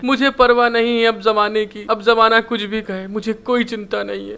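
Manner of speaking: "मुझे" pushed out in a half-hearted wail; crying shout. Acted. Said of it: "बहुत ज्यादा तेज रोते हुए और चिल्ला के". ("मुझे" पर ज़ोर देकर हल्की रोती चीख)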